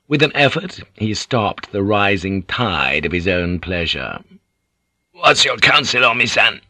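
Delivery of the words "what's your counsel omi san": thick-throated lord seeking advice; throaty. Acted. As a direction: ask counsel with a catch of excitement in the throat. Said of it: "he asked throatily".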